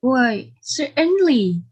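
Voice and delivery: as if the question is absurd; indignant. Acted. Asked if he is married, indignant.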